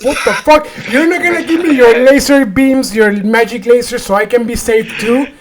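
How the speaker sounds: high-pitched mock outrage; retold indignation. Stroke patient demanding his magic cure, high indignant voice.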